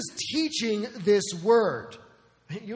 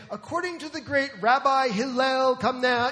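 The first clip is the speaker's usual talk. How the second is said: pompous rabbi; 5 semitones higher than usual. Retold or imitated. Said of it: "you would often hear them say".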